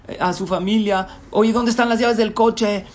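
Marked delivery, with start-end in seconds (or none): 1.3-2.8 high, loud frantic call; yelling at family. Acted. Businessman shouting to his family for car keys, loud yell. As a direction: bellow it through the house. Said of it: "empieza a gritar".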